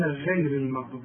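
غير with a thin gh; wrong light ghayn. Shown as a demonstration. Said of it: "يقول لك". (غير بغين مرققة)

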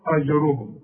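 أجرهم with the hamza broken off; أجرهم with the hamza detached; wrong version. Retold or imitated. Teacher repeating the error. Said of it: "ما تقولش هنا".

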